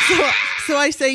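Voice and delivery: words broken by a real laugh; giggling mid-sentence. Real, not acted. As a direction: laugh through it. Laughing while retelling the cops.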